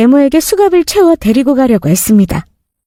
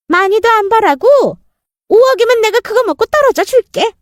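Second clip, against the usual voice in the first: sneering stepmother; 8 semitones higher than usual. Acted. Stepmother demands money.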